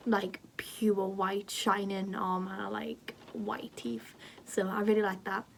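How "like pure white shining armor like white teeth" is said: whispered aside. Real, not acted. Embarrassed aside about bright teeth.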